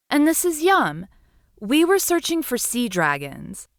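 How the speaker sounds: tiny, high and timid little seahorse; little seahorse calling into the cave. Acted. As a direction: squeak it out like a small sea creature. Seahorse introduces herself to witch.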